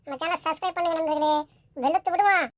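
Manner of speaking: loud, punchy intro to viewers; channel intro. Acted. Host greets viewers before the main picture, loud channel intro. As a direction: hype up the trailer loudly.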